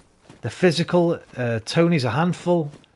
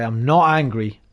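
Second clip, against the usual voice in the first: disappointed parent; 3 semitones lower, slower than usual. Retold or imitated. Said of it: "and they say".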